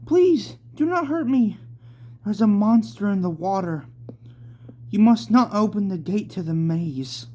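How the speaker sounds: put-on very high, loud pleading girl; frightened child. Sarah begs Yukino not to hurt her, high and pleading. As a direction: beg like a scared little girl. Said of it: "said Sarah".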